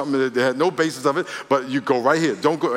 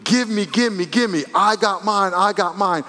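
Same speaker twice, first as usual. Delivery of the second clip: greedy mock prayer; 4 semitones higher than usual. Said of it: "Instead of saying".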